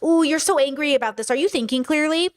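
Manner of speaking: imitating condescending concern; put-on patronizing fuss; mocking tone police. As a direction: question them with mock worry, lilting up at the end. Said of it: "And now it's like".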